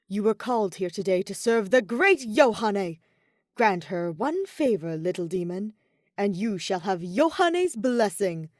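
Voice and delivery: loud, theatrical self-proclaimed dark angel; grandiose fallen angel. Acted. Yoshiko as Yohane commanding Daya, loud and theatrical. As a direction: proclaim it like a dark ruler summoning a servant.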